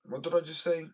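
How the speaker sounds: high, loud incredulous question; surprised at himself. Real, not acted. Catching his own slip, loud and high. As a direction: jump up in pitch, caught off guard.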